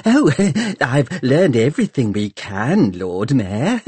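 giggly, fluttery reply; twittering laugh. Acted. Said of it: "twitters the Doctor".

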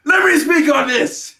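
slow, emphatic quote; Conan quote. Retold or imitated. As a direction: lean into the famous line. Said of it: "In the words of Conan".

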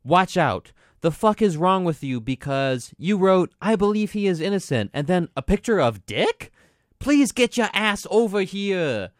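furious fan yelling over text; angry fan rant. Retold or imitated. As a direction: blast it like an enraged fan. Angry fan's message read aloud.

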